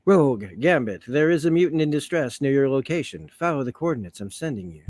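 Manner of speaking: lightly put-on formal comic-book heroine; measured announcement with swooping emphasis; Storm, bad impersonation. Summoning Rogue and Gambit to a mutant in distress, mock-dignified. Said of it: "a bad impersonation".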